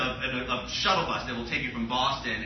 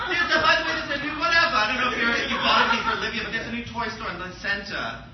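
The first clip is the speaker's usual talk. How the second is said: overplayed offhand chatter; mock casual; 7 semitones higher, 3 dB louder, faster than usual. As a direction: imitate mom casually dropping big news. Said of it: "Like, she's so casual".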